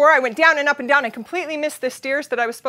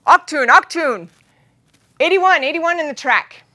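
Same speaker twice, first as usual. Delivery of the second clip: German announcer; 3 semitones higher, 4 dB louder than usual. Retold or imitated. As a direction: bark the warning like a track announcer. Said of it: "the announcer comes on in German again and he says".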